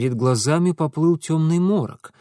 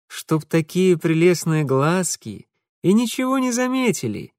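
flattering; 4 semitones higher than usual. Acted. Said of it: "попытался польстить он".

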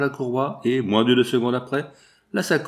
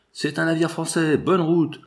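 shout; 6 semitones higher than usual. Acted. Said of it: "Une voix cria".

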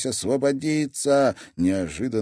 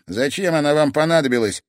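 sullen question; 6 semitones higher, 5 dB louder, faster than usual. Acted. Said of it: "хмуро спросил Тимофей".

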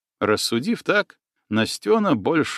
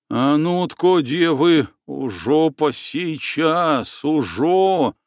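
rough peasant men shouting; 3 semitones higher, slower than usual. Acted. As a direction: bellow it like rowdy peasants. Men charge at the girls.

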